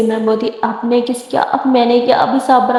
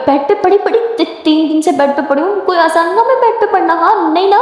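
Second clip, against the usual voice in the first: higher-pitched mock grumbling; complaining patient; 4 semitones higher than usual. Patient fed up with bed rest, complaining. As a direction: protest in a lightly acted, raised voice.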